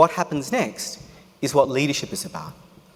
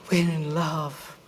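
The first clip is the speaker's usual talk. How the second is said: dreamy; 7 dB quieter, slower than usual. Pretend. Mock swooning over soul partner.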